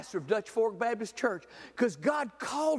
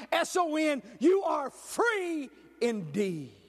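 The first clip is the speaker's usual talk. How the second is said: forceful declaration building to stretched final words; ringing sermon climax; rousing preaching; 2 semitones higher than usual. Acted. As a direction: proclaim it to rally the congregation.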